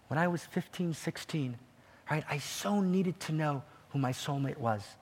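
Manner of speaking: soft, tender confession; kindest, gentlest voice. Acted. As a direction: speak softly and gently to her. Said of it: "in the kindest, gentlest voice you can imagine".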